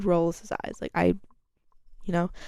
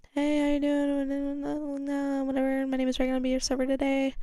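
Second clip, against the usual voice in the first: server voice; 7 semitones higher, 3 dB quieter than usual. Retold or imitated. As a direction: greet the table like a cheerful waitress. Server greeting customer, bright voice.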